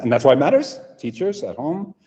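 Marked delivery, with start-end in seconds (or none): 0.0-0.8 fast. Shown as a demonstration. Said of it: "say it fast".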